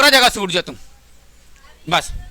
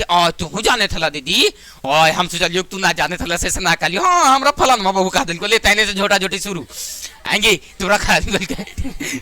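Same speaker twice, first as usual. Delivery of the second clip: a hint of a village woman picking a fight; mock gossip quarrel; 3 semitones lower than usual.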